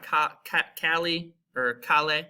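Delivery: "Cali or cale" with an English L, no Y, slowly; wrong pronunciation. Shown as a demonstration. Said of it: "it's not ... it's calle".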